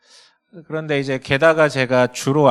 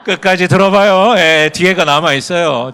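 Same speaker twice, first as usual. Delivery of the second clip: loud appeal to the audience to wait; loud, insistent protest; calling out; 3 semitones higher, 12 dB louder than usual. Real, not acted. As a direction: raise your voice over a reacting crowd. Calls over the audience's reaction.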